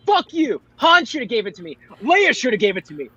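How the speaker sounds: mock-angry wronged hero; indignant Chewie. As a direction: play a touch of comic grievance. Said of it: "Chewie should be like".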